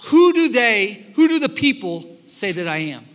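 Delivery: lightly voiced Jesus. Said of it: "and he says".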